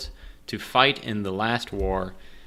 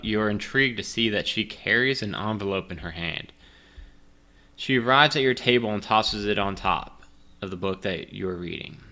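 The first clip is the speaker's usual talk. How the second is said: ordinary talk, nothing marked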